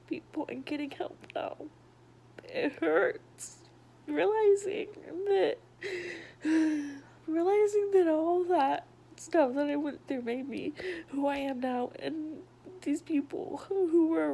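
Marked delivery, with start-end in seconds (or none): 2.4-11.9 crying. Real, not acted. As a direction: push through the tears. Breaks down recounting her past.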